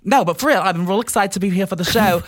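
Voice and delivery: put-on a mild British accent, cheery; upbeat mock British accent. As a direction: play a chatty Brit on a show. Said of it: "I will be from Britain".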